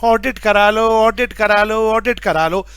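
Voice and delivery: melodic vegetable vendor call. Retold or imitated. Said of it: "ऐसे CA लोग ना companies के बाहर जाके बोलते हैं".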